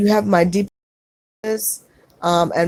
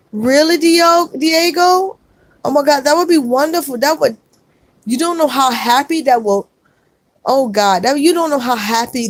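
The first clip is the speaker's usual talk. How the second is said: much higher, astonished and thrilled; real happy surprise; 5 semitones higher than usual. Real, not acted. Streamer to viewer offering tickets for her daughter, thrilled surprise. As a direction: gasp it out in delighted disbelief, pitched high.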